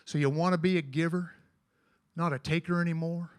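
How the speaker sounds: cowboy poem recitation; cowboy poetry. Acted.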